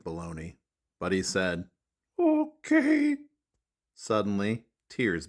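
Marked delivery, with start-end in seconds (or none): 2.2-3.2 high monster voice, grudging okay; high puppet-voiced grudging okay; reluctant Grover. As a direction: give in though you don't want to.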